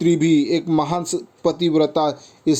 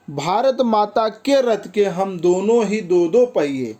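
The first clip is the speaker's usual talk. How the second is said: higher-pitched verse reading; poem recitation; 4 semitones higher than usual. Acted. Teacher quoting the two wheels of Mother India, poem recitation.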